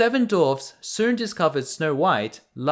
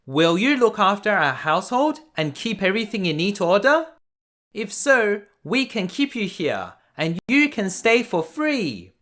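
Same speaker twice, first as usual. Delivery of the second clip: higher, kindly dwarf voice; friendly dwarf; 6 semitones higher than usual. Acted. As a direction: offer her a home gently. Dwarf offers her a home.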